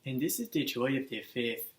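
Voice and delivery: loud intro in a put-on Wakandan African accent; Black Panther accent. Host opening his review show in a put-on Wakandan accent. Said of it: "Hope you all enjoyed that accent".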